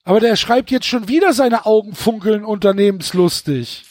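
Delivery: teasing the author's repetition; mocking. Real, not acted. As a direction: ridicule the repeated phrase. Mocking the repeated phrase.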